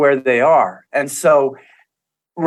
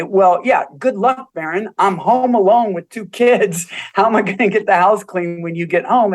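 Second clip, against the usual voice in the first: higher-pitched imitation of a fed-up wife; mock exasperated retort; 3 semitones higher than usual. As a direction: lightly act out a wife's protest. Retold wife's retort to husband.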